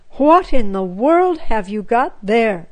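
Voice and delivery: a mild, startled mother's cry; a mother startled at what the girls bring in. Acted. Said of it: "cried Mamma".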